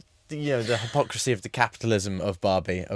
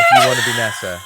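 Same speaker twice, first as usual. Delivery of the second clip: excited shout; 6 dB louder, faster than usual. Real, not acted. Excitedly offering the Nessa role.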